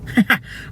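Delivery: short, high put-on laugh; gloating villain chuckle. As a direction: snicker like a storybook bad guy.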